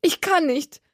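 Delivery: high, despairing wail; desperate cry. A narrator's reading. Gertie to Jenna, desperate and high. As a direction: cry it out as if in agony. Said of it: "rief sie verzweifelt".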